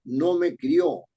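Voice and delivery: slow reading. Shown as a demonstration. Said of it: "ahí no dice crió".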